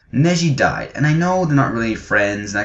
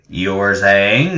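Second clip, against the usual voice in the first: Zoidberg; much slower than usual. Retold or imitated. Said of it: "I'm imagining Zoidberg going".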